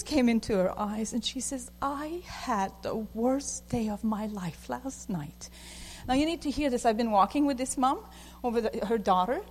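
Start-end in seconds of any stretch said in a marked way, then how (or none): 1.8-5.5 slow, soft and heavy; a touch of a mom near tears; tearful. Retold or imitated. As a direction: say it slowly as if fighting tears. Tears came into her eyes.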